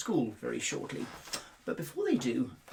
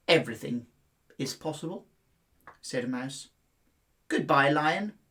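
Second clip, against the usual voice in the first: lightly voiced wise mouse; 3 dB louder than usual.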